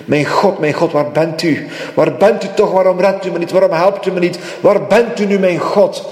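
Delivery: David's lament. Retold or imitated. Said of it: "er zijn tijden geweest dat hij riep".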